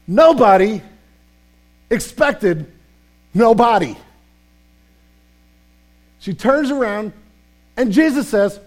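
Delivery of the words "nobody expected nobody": Nobody and nobody hit hard and loud, pauses between; punched words. Real, not acted. Pastor to congregation, punching Nobody with long pauses. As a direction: drop each word like a hammer.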